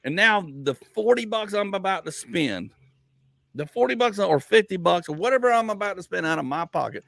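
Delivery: put-on scolding a picky kid with mounting heat; heated rant to a kid. Father ranting at his kid about hustling for money. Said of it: "I'm like".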